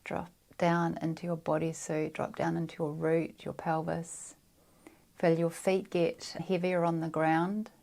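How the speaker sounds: calm, unhurried meditation guidance; guided meditation. Real, not acted. Meditation guide grounding listeners through breath and feet, calm and measured. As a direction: guide them down into the body with long pauses.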